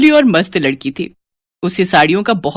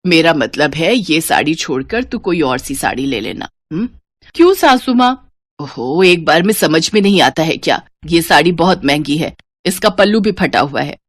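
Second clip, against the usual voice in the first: lower, measured elder voice; mother-in-law; 4 semitones lower than usual. Acted. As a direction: instruct the new bride. (सास की भारी आवाज़)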